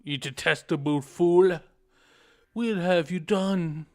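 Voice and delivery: enraged ancient spirit; furious sage voice. Acted.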